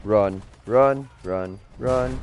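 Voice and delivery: panicked urging to run; urgent running. Real, not acted. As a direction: yell run over and over. Fleeing danger in game.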